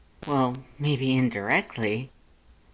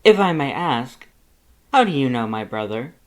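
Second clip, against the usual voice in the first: proud, cheery, boastful and loud; good-natured Papyrus; 3 semitones higher, 7 dB louder than usual. Acted. Papyrus introduces himself to Lust, booming and cheerful.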